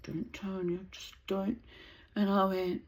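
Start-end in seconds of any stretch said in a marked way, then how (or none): 0.0-1.6 hushed warning. Retold or imitated. Courtney hushing her friend, quiet urgent warning. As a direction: hold her back under your breath. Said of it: "Courtney's like".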